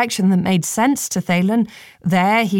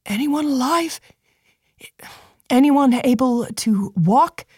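soft call; 5 semitones higher than usual. Acted. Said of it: "Thalen called softly".

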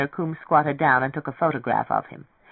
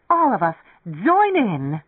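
high, drawn-out rallying cry; excited cry; 4 semitones higher, 4 dB louder, slower than usual. A narrator's reading. Beth urges the whole room to join in, crying out. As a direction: call everyone in, slow and soaring. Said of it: "she cried in his astonished ear".

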